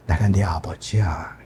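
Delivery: slow, low, unvoiced whisper; God whispering to his child, tender and slow. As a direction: whisper it like a loving father. God's voice, tender climax.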